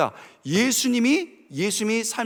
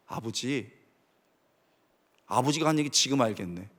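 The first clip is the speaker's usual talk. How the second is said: softer, half-whispered grief; soft tearful words at the grave; 7 semitones lower, 7 dB quieter than usual. Retold or imitated. Son at his father's grave, a hint of tears, quiet. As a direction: speak quietly as if over a grave. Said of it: "제가 울었습니다".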